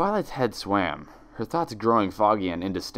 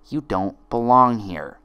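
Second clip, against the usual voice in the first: twin's accusation; 5 dB louder than usual. Acted. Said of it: "Each friend repeated one of her twin's lines".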